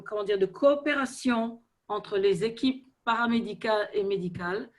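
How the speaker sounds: French with a light foreign accent. Real, not acted. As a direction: speak French as a non-native. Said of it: "mon français n'est pas parfait". (accent étranger en français)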